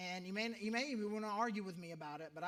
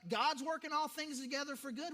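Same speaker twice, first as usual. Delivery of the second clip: mock pious cliché; 5 semitones higher, 4 dB louder than usual. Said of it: "people don't wanna hear that".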